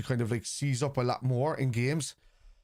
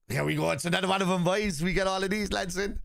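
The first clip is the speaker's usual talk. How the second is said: higher-pitched mocking call to the boys; mock announcement; 7 semitones higher than usual. Streamer announcing another clueless chatter to the lads, mockingly. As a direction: announce it derisively, pitched up high.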